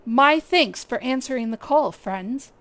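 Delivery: lightly voiced stately guild leader, measured; brief the adventurers with courteous gravity; Lewin, formal commander. Streamer voicing the guild leader's mission briefing, lightly formal. Reading NPC Lewin's lines.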